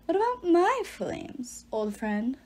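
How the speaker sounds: a goddess speaks softly, lyrical and calm. Acted. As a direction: float the words gently, calm and sure. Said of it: "a soft, lyrical voice said".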